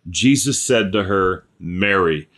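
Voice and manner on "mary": low, gentle naming of Mary; tender calling. Acted. Jesus calling Mary by name, low and gentle. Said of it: "she knows the intonation of his voice".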